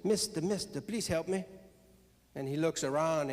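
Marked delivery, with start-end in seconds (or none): 0.0-1.4 little frog voice. Acted. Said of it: "he hears this voice".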